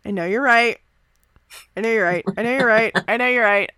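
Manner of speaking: P=A; resigned. Acted. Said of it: "he sighs, closes his eyes".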